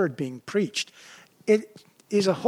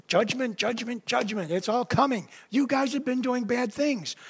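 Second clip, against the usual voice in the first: prophet warning; 6 semitones higher than usual. Retold or imitated. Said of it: "He's been telling them".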